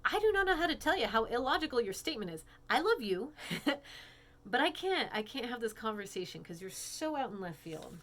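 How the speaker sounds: exasperated quote. Retold or imitated. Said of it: "I'm just like".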